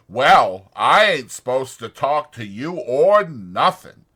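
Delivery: loud, anxious simple man; Lenny's worried voice. A narrator's reading. Lenny frets to himself over the dead puppy, loud and anxious. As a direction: fret out loud about George finding out.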